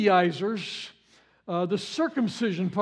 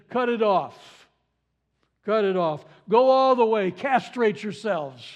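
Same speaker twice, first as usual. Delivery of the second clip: mock urging, biting and sarcastic; dripping sarcasm. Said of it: "with dripping sarcasm".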